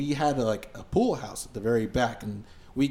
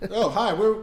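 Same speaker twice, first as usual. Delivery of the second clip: high, bright put-on greeting, higher; hammed-up hello to the saloon crowd; mock cheery announcement; 9 semitones higher than usual. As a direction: announce the band with fake cheer.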